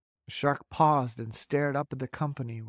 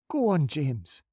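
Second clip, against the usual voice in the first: gently; 2 semitones higher, slower than usual. Acted. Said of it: "the ladybug said gently".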